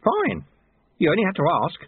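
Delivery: high, pleased concession; cheerfully obliging; smiling broadly. A narrator's reading. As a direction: give in with a broad smile. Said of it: "smiling broadly".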